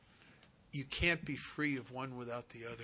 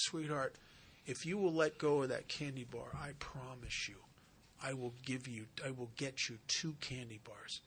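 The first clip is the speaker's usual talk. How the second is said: soft reassurance; 2 semitones lower, 5 dB quieter than usual. Acted. Paramedic promises the girl gently.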